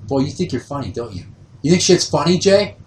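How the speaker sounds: starts contained, builds to a high, loud rant; imitated dad's building rage. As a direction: erupt like a volcano as the angry dad. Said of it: "lets his rage build up for a while before it just comes shooting".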